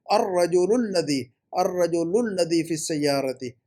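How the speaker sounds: अर्रजुलुल्लदी run together as one word, slowly; model sentence for drilling. Shown as a demonstration. Teacher drills student on the sentence, slow linked model reading. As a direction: say अर्रजुलुल्लदी slowly, linking lu straight into lladi. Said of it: "इसको दस मरतबा जुमले को पढ़िए".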